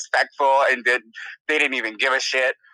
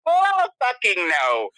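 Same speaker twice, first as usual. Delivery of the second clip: high, drawn-out outraged no; emphatic refusal; 8 semitones higher, slower than usual. Real, not acted. Asked about giving guys a real name, emphatic refusal. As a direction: stretch it out as an absolute refusal.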